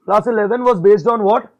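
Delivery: very slow, loud question to the class, then the answer; teacher prompting the class to answer, slow and loud; slow quiz prompt. Shown as a demonstration. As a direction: quiz the class slowly, stressing what. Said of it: "तो मैं बहुत धीरे बोलूंगा".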